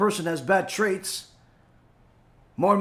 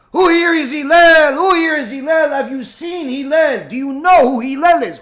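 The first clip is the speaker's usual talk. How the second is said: loud, higher taunting shout; mock screaming; 6 semitones higher, 9 dB louder than usual. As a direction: scream as if there's an emergency. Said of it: "somebody screaming".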